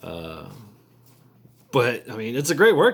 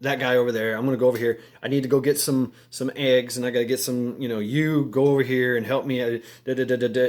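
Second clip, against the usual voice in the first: a hint of a bossy, commanding guy; mild mock of a know-it-all giving orders; bossy talker impression. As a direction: lightly play someone barking orders at everyone. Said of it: "people that they talk like this".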